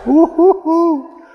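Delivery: high falsetto whoop of delight; joyful whoop. Real, not acted. Preacher whoops with joy.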